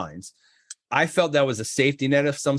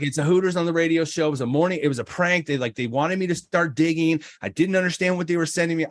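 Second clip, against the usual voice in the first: fast pleading with the cop; pleading his case; 4 semitones higher than usual. Retold or imitated. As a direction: rush the excuses out to the cop. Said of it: "I'm trying to plead my case".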